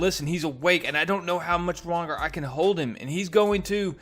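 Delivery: Venom warning. Retold or imitated. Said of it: "Venom sounds the warning alarm saying".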